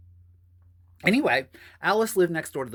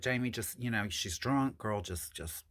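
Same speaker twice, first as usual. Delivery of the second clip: imitating Alice; 4 semitones lower, 7 dB quieter than usual. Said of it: "She used to talk like that".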